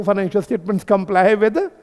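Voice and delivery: very slow, each word spaced out for notes; slow dictation. Shown as a demonstration. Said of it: "तो क्या लिख सकते हो?". (बहुत धीरे, लिखवाते हुए)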